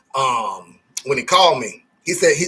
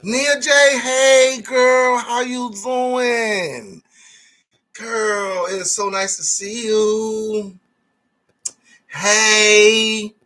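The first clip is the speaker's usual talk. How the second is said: put-on high girlish greeting; 5 semitones higher, much slower than usual. Greeting a viewer in high sweet voice.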